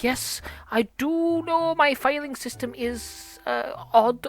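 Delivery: prim, bookish game character; lightly put-on scholarly lecturing voice; lightly voiced know-it-all. Game character telling player to read carefully, prim know-it-all.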